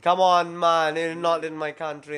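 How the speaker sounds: lightly put-on Jamaican accent. Shown as a demonstration. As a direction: try a joking Jamaican accent, loud at the start. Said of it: "Give me a Jamaican accent".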